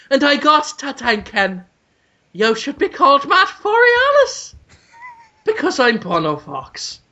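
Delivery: lightly voiced rock star letter; rock singer impression. Writing to David Boreanaz as a rock singer, lightly voiced grandiose. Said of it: "I should pose as Bono Vox".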